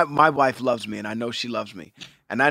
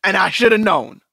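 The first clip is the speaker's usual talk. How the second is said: higher, louder gushing delight; hammed-up thrilled husband mid-sex; mock overjoyed; 6 semitones higher, 5 dB louder than usual. Husband imitating himself gushing to wife, mock overjoyed. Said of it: "I'll be like".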